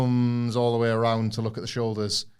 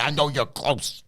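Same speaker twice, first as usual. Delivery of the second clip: in his face; slower than usual. Retold or imitated. Cena right up in a rival's face, slow and menacing. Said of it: "right up in his face".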